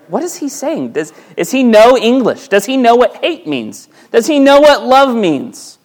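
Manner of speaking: high, baffled questions; puzzled. Pretend. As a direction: sound confused by the pastor. Congregation's puzzled reaction.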